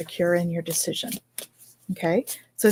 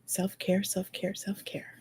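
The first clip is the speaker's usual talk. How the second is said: soft murmur fading into a whisper; murmuring to self; 11 dB quieter, slower than usual. Real, not acted. Card reader to herself while searching, murmuring into whisper. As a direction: repeat it under your breath, trailing to whisper.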